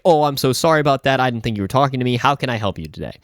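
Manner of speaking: mock-polite retail helpfulness; customer service voice. Clerk apologizing to a waiting lady, customer service voice. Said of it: "puts on his best, like, customer service voice".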